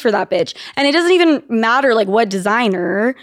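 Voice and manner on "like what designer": ordinary talk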